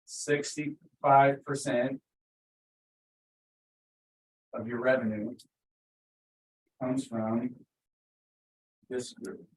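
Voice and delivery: very slow, with long pauses between phrases; letting it sink in. Shown as a demonstration. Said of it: "Let that one sink in".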